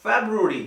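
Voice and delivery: फेब्रुअरी as FEB-roo-uh-ree; correct pronunciation. Shown as a demonstration. Teacher correcting Hindi habit, फेब्रुअरी with English "feb-roo". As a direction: keep the "br" in फेब्रुअरी. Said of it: "लेकिन ये होता है".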